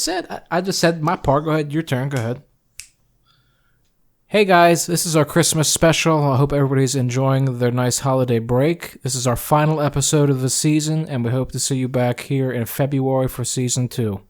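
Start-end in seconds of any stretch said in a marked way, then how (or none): 4.3-14.2 upbeat show intro, punched greeting then smooth; podcast voice. Shown as a demonstration. Co-host welcoming listeners to holiday episode, podcast voice. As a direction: greet listeners brightly and roll straight on. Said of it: "in your podcast voice".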